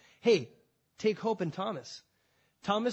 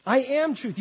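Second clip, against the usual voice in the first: "I am truth" shouted higher and louder; Jesus declaring it, loud to the crowd; loud proclamation; 6 semitones higher, 7 dB louder than usual. Acted. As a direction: ring out "am" with full force. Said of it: "Jesus said".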